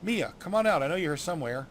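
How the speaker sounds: chirpy fairy. Acted. Fairy sniffs out the halfling.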